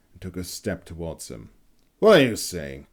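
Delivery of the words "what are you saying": loud, high furious accusation; angry bark. A narrator's reading. Young hunter confronts Heinrich, angry loud bark. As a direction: bark it at him, rising to a yell. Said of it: "he barked".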